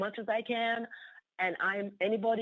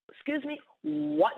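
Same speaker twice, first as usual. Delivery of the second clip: mock astonished, higher and slow; surprised; 6 semitones higher than usual. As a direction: retell her shock. Pastor interrupts, astonished.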